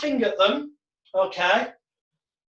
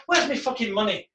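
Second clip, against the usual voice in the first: put-on Irish accent. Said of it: "It's nearly Irish again".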